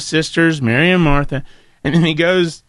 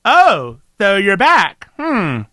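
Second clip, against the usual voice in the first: slow, unimpressed sarcasm; sarcastic Martha; slower than usual. Pretend. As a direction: drag it out, not impressed. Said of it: "Said Martha".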